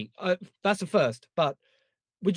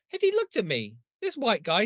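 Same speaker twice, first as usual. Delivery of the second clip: ordinary delivery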